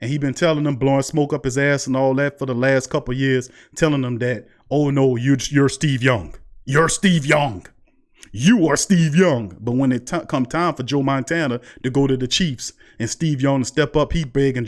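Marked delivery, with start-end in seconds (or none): 4.7-9.6 slow, drawn-out buttering-up voice as the coach; lightly voiced coach laying on the praise; mock flattering coach. Coach flattering Taysom, acted quote.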